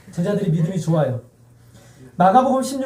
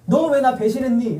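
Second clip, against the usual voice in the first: lightly acted, higher-pitched accusing question; mock reproach; 5 semitones higher than usual. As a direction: put a betrayal to them as mock scolding. Mock rebuke Jesus never gave.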